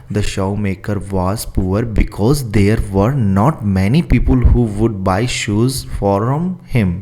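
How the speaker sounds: very slow, word by word for copying; slow dictation. Shown as a demonstration. Teacher dictating the question to students, slow and careful. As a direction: read it out slowly so students can write. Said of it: "तो इसका answer लिखो".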